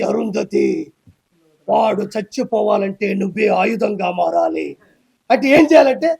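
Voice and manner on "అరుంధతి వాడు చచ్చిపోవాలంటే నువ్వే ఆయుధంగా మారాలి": lightly voiced solemn sage, lower and slow; a hint of a grave film mystic, slowly. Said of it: "అదంతా చూసి". (నెమ్మదిగా, గంభీరంగా cinema సాధువు గొంతు)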